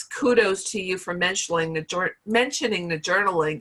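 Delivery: hoarse, tired voice giving out; losing voice. Real, not acted. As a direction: talk through a voice that is going. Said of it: "I'm losing my voice right now".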